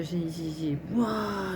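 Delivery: halting gasps from the cold; gasping in icy wind. Real, not acted. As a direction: catch your breath, shivering. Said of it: "j'ai gelé ce matin au marché".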